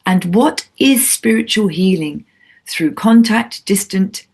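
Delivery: measured radio host's introduction; scripted show intro. Acted. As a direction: read the guest's biography as a prepared intro.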